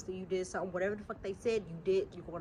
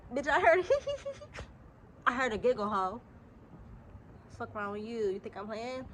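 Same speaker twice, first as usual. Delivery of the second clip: louder, pitched-up imitation of friends; loud mock insistence; 3 semitones higher, 4 dB louder than usual. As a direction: shout it like the girls backing her up. Voicing friends echoing her.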